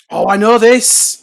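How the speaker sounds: loud, high, stretched-out outburst; excited recognition. Real, not acted. Quiz player who suddenly knows the film, excited. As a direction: burst in eagerly with the answer coming. Bursts in on a trivia question.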